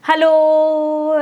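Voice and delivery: one long drawn-out hello that trails off; stretched reverb hello. Shown as a demonstration. Teacher showing students how reverberation stretches the sound, long drawn-out hello. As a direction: stretch the hello as if it lingers in a hall. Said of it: "आवाज़ खिंचती हुई जाती है".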